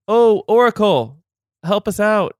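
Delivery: high, loud pleading cry; pleading farmers. Acted. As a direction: beg the oracle for help. Farmers voiced pleading to oracle.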